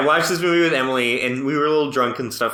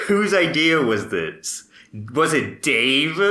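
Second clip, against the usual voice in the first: laughing quote; slower than usual. Retold or imitated.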